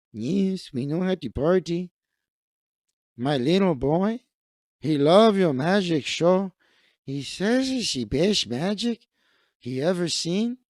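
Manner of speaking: put-on proud father thanking the magician in a light Mexican accent. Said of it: "likes my Mexican voice".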